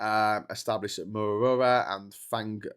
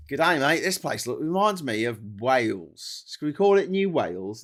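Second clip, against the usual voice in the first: put-on a cheery Aussie settler musing in a mild Australian accent; 3 semitones higher, 5 dB louder than usual. Australian settler naming the new land, in a light Australian accent. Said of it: "Imagine being the Australian who was there just going".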